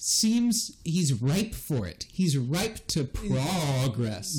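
slow, drawn-out spooky ghost voice. Pretend. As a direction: stretch every word like a spooky ghost. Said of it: "I said it like a spooky ghost".

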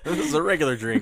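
laughing through a mock quote; laughing mimic. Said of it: "I just sipped it like regular drink".

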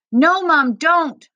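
high, loud, frightened warning; crying out. A narrator's reading. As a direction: cry out to stop a parent. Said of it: "Mohammed cried".

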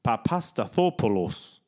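slow Papastathopoulos, papa-sta-THO-po-los; careful pronunciation. Shown as a demonstration. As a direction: demonstrate Papastathopoulos syllable by syllable. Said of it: "That's it".

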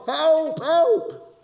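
high, loud cry for help; mock shout for help. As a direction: call out "help" as if through a letterbox. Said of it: "he shouts".

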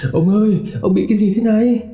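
high, fast, frightened cry to her husband; panicked cry. Acted. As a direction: blurt it out in alarm. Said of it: "hoảng hốt hét lên".

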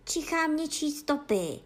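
mildly excited dog; excited cry. A narrator's reading. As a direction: call out the find. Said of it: "vykřikl Bufíno najednou".

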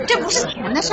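笑着说. Real, not acted. 说笑收下四千块.

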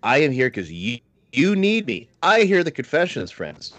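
lightly imitated New York priest, rising high; New York priest accent. Priest explaining why parish needs him, light mock New York accent. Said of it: "that's how he, he did it".

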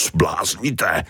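building from fretful to a high shout; panicked cry for help. Acted. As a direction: call out in rising panic as he floats away. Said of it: "volal Tony z výšky".

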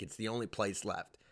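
quiet, resigned admission; resigned aside. Real, not acted. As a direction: drop the volume and concede it. Resigned first take.

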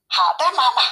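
lightly voiced storybook cubs; bear cubs answering. A narrator's reading. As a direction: answer mother like obedient little cubs. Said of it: "熊宝宝齐声回答说".

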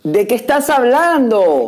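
slow, stunned question; shocked disbelief. Real, not acted. Co-host reacts to a shocking Bible claim, stunned and slow. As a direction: drag it out in real disbelief.

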